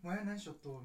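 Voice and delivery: casual Kagoshima-dialect question. Retold or imitated. Asking a hometown friend in Tokyo, Kagoshima dialect. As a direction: ask it in easy Kagoshima dialect. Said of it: "一、二年は鹿児島弁".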